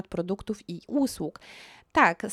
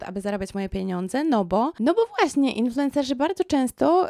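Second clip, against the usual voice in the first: ordinary talk, nothing marked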